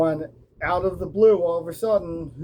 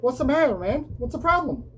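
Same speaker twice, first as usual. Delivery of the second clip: mocking challenge in a raised voice; taunting Seth; 8 semitones higher than usual. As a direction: goad him, daring him to swing. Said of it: "and Seth's like".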